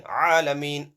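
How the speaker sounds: throaty first A in ALAMEEN; Ayn reading. Shown as a demonstration. Teacher alternating readings for pupils, throaty Ayn. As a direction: squeeze ALAMEEN's opening in the throat. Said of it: "See the difference?".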